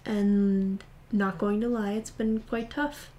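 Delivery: stifling a yawn; holding back a yawn. Real, not acted. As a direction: talk through a suppressed yawn. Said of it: "I'm trying to hold back a yawn".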